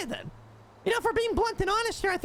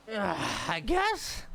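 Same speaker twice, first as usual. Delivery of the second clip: reluctant drawl; 11 semitones lower, 3 dB quieter, much slower than usual. Acted. Reluctant reply.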